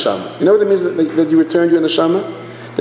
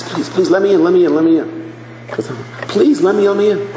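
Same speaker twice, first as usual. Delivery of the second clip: pleading; 5 semitones higher than usual. Acted. Acted latecomer begging at the door.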